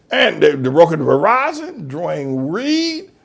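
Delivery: normal talking voice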